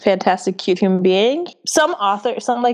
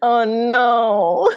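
sympathetic mock cry; 4 semitones higher than usual. Real, not acted. Reacting to crying confession.

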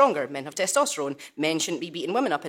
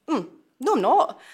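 higher, emphatic pushback; mock-indignant denial, louder at the end; retold denial; 7 semitones higher, 6 dB louder than usual. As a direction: push back firmly, pitched up. Denies the retold accusation.

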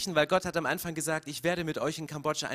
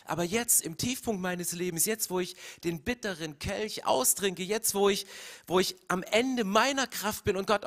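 reproachful. Retold or imitated. Preacher imagining Jesus reproaching God at his lowest point. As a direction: accuse God of deserting him. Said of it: "dass Jesus vorwurfsvoll geworden ist".

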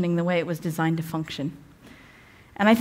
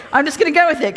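laughing; 5 semitones higher, 3 dB louder, faster than usual. Real, not acted. Laughing at her own accent.

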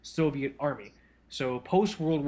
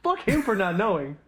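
patient fiance; 5 semitones higher, 3 dB louder than usual. Retold or imitated. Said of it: "She's just like".

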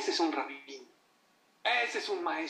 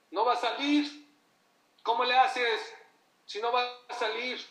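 higher, louder alarmed voice; anxious higher cry; worried outcry; 8 semitones higher, 6 dB louder than usual. Retold or imitated. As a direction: sound like a panicked parent. Worried people before graduation photo.

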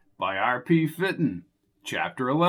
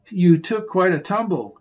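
whimsical and playful; 4 semitones higher than usual. Acted. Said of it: "she said in a whimsical voice".

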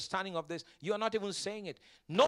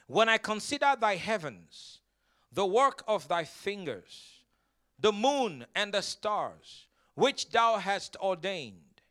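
slow, measured scripture reading; 4 dB louder, slower than usual. Acted. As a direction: read the verse out with weighty pauses. Reads scripture to congregation.

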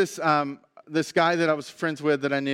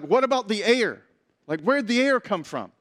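mildly imitated frustration, slightly raised; frustrated demand; 4 semitones higher than usual. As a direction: press the question like an annoyed student. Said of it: "getting really angry and really frustrated".

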